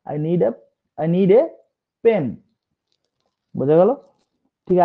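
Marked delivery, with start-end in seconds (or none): 0.1-2.2 deliberate "I need a" with "a" as ay; emphatic "a" as ay. Shown as a demonstration. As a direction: land on "a" as ay, then "pen". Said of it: "যখন আমি emphasise করছি".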